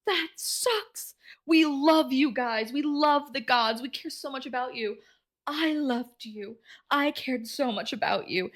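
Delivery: high, slow, pleading and hurt; a mild upset plea to a goddess. Retold or imitated. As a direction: beg the gods to care, slowly. Mina is so upset.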